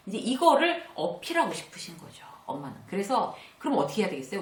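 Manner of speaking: ordinary talk, nothing marked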